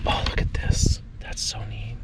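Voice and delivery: hushed whisper over a find. Real, not acted. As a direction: breathe it out in awe. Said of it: "I don't know why I'm whispering".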